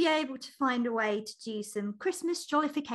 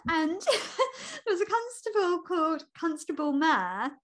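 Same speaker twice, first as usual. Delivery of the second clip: laughing; 3 semitones higher than usual. Real, not acted. Laughing while naming the constable.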